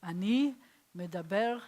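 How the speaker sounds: Ani medaber, said as ah-NEE meh-dah-BEHR in Hebrew; Hebrew phrase. Shown as a demonstration. Teacher modelling the Hebrew for the class, clear demo. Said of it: "you would say".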